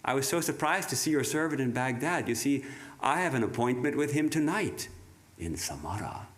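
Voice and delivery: a lightly voiced gentle, polite Death. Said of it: "And Death was very polite".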